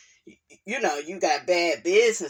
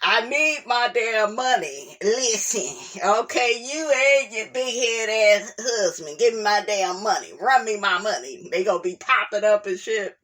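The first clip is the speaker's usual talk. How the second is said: demanding tone. Pretend. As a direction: demand the money with attitude. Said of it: "if a nigga woulda wrote this".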